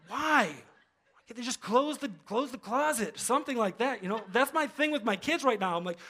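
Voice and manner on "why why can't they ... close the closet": laughing through a mock complaint; laughing exasperation. Parent laughing at his own gripe about the kids, amused. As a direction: chuckle while grumbling about the closet.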